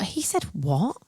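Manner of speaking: shocked unvoiced whisper; stunned whispered exchange. Real, not acted. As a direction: hiss it in disbelief.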